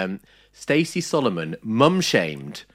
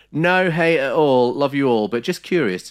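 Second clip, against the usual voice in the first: put-on fan voice; 7 semitones higher, 7 dB louder than usual. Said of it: "I will do an accent for this".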